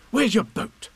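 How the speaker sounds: put-on high-pitched boy's question; eager boy. A narrator's reading. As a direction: ask keenly as a little boy.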